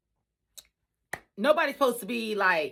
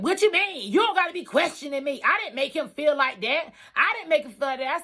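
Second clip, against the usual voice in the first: high, snappy and indignant; defensive coworker; 5 semitones higher than usual. Retold or imitated. Coworker brushing off the accusation, high and indignant. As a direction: push back fast, offended. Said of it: "She said".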